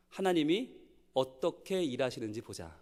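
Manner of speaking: soft, slow, steady promise; calm quiet reassurance. Retold or imitated. Church teacher calmly reassuring the worried student. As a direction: say it gently, trusting God. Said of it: "선생님이 이렇게 말해줬어요".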